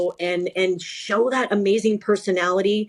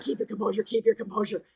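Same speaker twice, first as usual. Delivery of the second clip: much softer, muttered to herself; self-talk under breath; 7 dB quieter, faster than usual. Retold or imitated. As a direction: quietly coach yourself to stay calm. Telling herself to stay calm.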